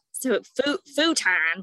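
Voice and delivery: futon as a loud American FOO-TAHN; Americanized pronunciation. Shown as a demonstration. Showing friends what makes parents cringe, loud Americanized futon. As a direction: hit both syllables of futon, open American "tahn". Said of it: "parents still, like, really cringe".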